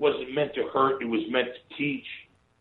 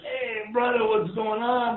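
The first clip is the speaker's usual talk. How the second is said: Jimmy's greeting; 8 semitones higher, slower than usual. Retold or imitated. Jimmy greets him warmly.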